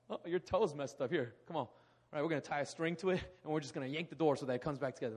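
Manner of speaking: loud, fast, careless doctor barking orders; mock rough doctor. Preacher mocking a careless doctor, loud and fast. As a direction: rush through it like a blunt quack.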